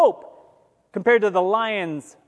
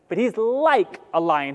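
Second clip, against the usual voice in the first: "like" leaned on with a falling tune; stress on like. Shown as a demonstration. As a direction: punch the word "like" in "he's like a lion". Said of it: "I want you to emphasize that word "like".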